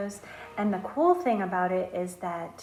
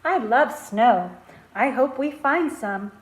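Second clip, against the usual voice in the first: put-on louder, eager child voice; eager pupil; 7 dB louder than usual. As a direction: gush like a kid who loves snow. Excited pupil voiced in story.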